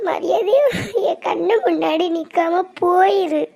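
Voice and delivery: crying while telling him to leave; a daughter weeping at her mother's insult; tearful order. Acted. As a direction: choke out the words through tears. Crying woman orders him away.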